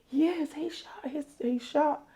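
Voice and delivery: high-pitched, drawn-out retelling of alarming news; retold alarmed answer. Girl answers a neighbor about who got shot, retold high and alarmed.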